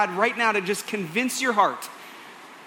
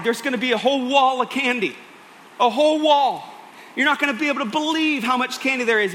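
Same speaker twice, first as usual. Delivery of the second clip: hyping it up; 4 semitones higher than usual. Acted. Dad building excitement.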